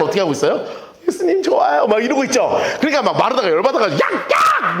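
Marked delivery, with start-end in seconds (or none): 1.1-1.9 high, gushing adoring sister; mock starry-eyed devotion; fawning Mary. Mary fawning over Jesus. 4.0-4.8 high, sharp sister yelling at her sibling; hammed-up irritation; mock angry call. Martha angry at Mary.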